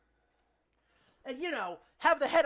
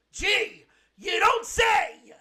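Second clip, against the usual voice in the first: loud, higher, slow mock fury; sarcastic shout; 7 semitones higher, 10 dB louder, much slower than usual. Answering that German needs anger, with a sarcastic shout. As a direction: bellow it sarcastically.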